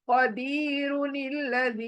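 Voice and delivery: कदीरुनिल्लज़ी chanted with a thick, back क; heavy initial qaf. Shown as a demonstration. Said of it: "क मोटी".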